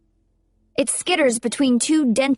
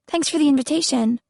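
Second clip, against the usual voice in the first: dry sarcastic thanks; 4 semitones higher than usual. Acted. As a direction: say it with open sarcasm. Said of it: "not even bothering to keep the sarcasm out of my voice".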